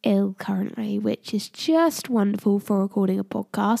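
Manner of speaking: blocked nose from a cold; nasal sick voice. Real, not acted. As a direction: talk through a stuffy nose. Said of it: "my very nasally voice".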